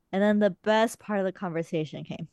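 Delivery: mild deadpan sarcasm; understated mock enthusiasm; sarcastic. Real, not acted. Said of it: "Sarcasm, if you can't tell".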